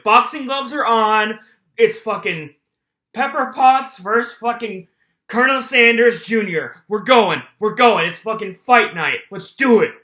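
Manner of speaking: loud pump-up chant for the fight; rally the crowd before the bout; hyped up. Real, not acted. Hyping up a fight night.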